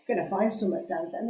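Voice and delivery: put-on host's weak go at "Gonna find summer downtown", slipping into another accent; host tries to repeat Kelly's Bristolian line and fails; failed Bristolian imitation. Botched West Country accent. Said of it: "I immediately went into something else".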